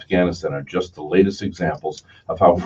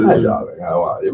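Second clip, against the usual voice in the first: mock British accent. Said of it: "you get a British accent".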